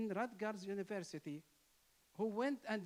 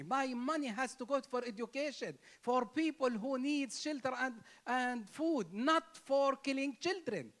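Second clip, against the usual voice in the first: rising to a loud, forceful cry; impassioned protest; 3 semitones higher, 5 dB louder than usual. Real, not acted. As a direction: build it into a loud, pleading protest. Protesting war funded by taxes.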